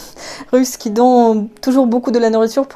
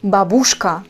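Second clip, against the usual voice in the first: babouchka stressed on the last syllable; wrong final stress; 2 semitones lower than usual. Retold or imitated. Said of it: "toujours sur la dernière syllabe".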